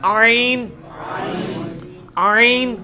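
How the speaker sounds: آئین with a throaty ain from mid-throat. Shown as a demonstration. Teacher demonstrating the Arabic ain to students, throaty. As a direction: squeeze آئین from the middle of the throat. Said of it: "ادھر ہی سے یہ آئین بھی نکلنا ہے".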